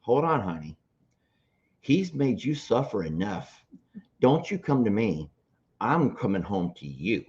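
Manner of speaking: soft, measured joke-mom voice; mom's voice. Acted. Mom turning the tables on her daughter, softly firm. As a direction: play a quietly firm mom. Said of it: "And Mom's like".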